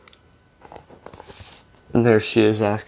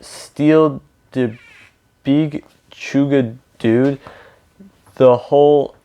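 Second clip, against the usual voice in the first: lightly put-on Spanish accent, drawn out in pieces; playful storybook attempt at a Spanish accent; a hint of Spanish accent, halting delivery; 3 semitones higher, 3 dB louder, slower than usual. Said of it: "using his very best Spanish accent".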